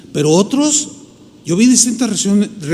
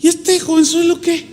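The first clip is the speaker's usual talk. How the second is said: higher, mocking the scornful elders; scornful dismissal; 9 semitones higher than usual. Elders scoffing at the young preacher, mock scornful. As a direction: sneer like an old man doubting a kid. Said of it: "Así como dice".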